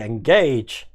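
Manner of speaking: a light take on Captain Picard's command; a hint of Picard; Picard impression. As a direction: give the order like a starship captain, lightly. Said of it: "Like Picard".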